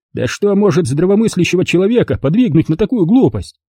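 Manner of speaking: a hint of a sneering guest; Kurt's scornful voice. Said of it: "воскликнул Курт".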